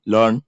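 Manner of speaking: "लर्न" as one syllable with a rising end; उच्चारण का नमूना. Shown as a demonstration. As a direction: model "लर्न" on its own. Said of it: "लर्न बोलते हैं". ("लर्न" अकेला, अंत में उठते सुर से)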